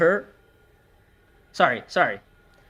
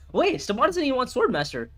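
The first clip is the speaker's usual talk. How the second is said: laughing; 8 semitones higher than usual. Real, not acted. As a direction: talk through real laughter, pitched higher. Laughing at opponent's odd play.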